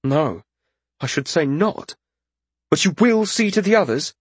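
high-pitched lordling voice; concede, then press the point in high pitch; concerned young lord. A narrator's reading.

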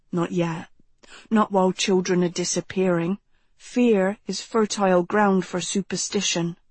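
lightly voiced, thoughtful teenage boy; a hint of a grave young man; serious young man. Narrator voices Jonathan in dialogue.

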